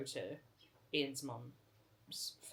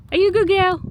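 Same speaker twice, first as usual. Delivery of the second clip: talking to a dog; 9 semitones higher, 25 dB louder, much slower than usual. Real, not acted. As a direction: gush over the dog, slow and high. Praising the dog after play.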